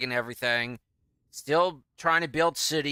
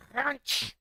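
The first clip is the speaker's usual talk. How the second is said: high crunch sound; 12 semitones higher, 3 dB quieter than usual. Pretend. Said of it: "Can you crunch a little louder".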